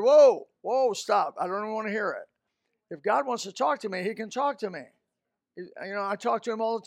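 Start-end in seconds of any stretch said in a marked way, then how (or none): 0.0-2.3 acted interruption. Preacher acting out turning away a prophecy, acted interruption. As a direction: cut them off firmly.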